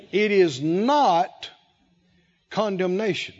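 slow, deliberate x0.5 spacing; slow it down and let each word land. Shown as a demonstration. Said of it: "I'll say it again slower".

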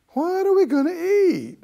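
high, pitiful whine. Retold or imitated. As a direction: whine it like someone feeling sorry for themselves. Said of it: "A whine, a pitiful".

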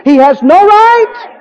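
high, loud preacher's shout; shouted revival preaching; preaching at full force. Acted. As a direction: build to a ringing climax.

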